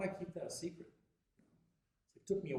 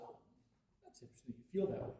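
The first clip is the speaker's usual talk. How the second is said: professional restraint; 3 semitones lower, faster than usual. Retold or imitated. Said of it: "I have to be disciplined, professional".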